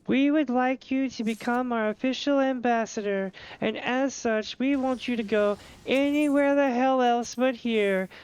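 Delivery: high, slow, saccharine mock-official send-off; Elder Seedseer voice. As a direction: play the Seedseer politely shooing you out. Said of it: "And you're like".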